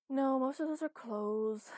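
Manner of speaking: drawn out, loud and high; slow, emphatic. A narrator's reading. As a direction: spell it out slowly.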